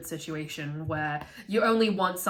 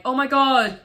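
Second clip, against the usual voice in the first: higher, louder panicked whine; mock a desperate husband; hammed-up entitled whine; whiny husband; 4 semitones higher, 5 dB louder than usual. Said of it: "the husband is like".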